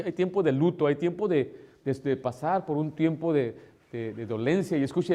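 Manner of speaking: usual speaking voice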